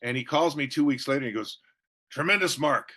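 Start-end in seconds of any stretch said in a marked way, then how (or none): 2.1-2.9 lightly voiced mentor, pitched higher; a touch of an exuberant mentor impression; Charlie Tremendous Jones. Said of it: "That's how he talked".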